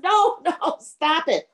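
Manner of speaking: high, drawn-out mock pleading; pleading ghost. Skull begs before the next whack, high mock pleading.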